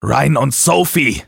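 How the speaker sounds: slow, strained through anger; pressed out angrily. Acted. Taylor forces the names out to Bob, pressed and angry. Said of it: "presste ich wütend hervor".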